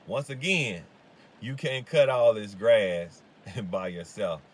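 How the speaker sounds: loud laughing emphasis. Real, not acted. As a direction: laugh through the punchline. Laughs while stressing his point.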